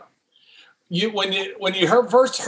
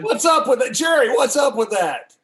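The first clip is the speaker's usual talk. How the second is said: shouting; 6 semitones higher than usual. Real, not acted. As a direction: call him out across the room. Calling Jerry out, teasing.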